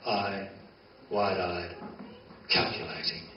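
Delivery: slow, hushed spoken-word poem; poem recital. Acted. Poet opening his reading with hushed, slow lines. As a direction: lay each image down softly and slowly.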